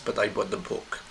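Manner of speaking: "book" stressed against anything else. Shown as a demonstration. Teacher contrasting book with anything else, stress on "book". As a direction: make "book" the contrasting word. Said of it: "I didn't buy anything else".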